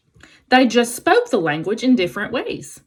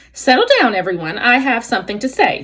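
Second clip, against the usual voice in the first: owl hoot; 2 semitones higher, faster than usual. Acted. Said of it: "Swooper the owl hooted".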